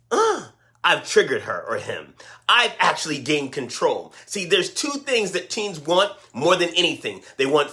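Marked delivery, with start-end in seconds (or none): 0.1-4.1 put-on low, smug teen inner voice; lower, gloating that you lost it; teen savoring a win over the parent; teen's smug thought. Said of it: "It gives them the".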